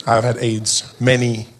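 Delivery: deadpan. Pretend. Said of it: "I look at her and I'm like".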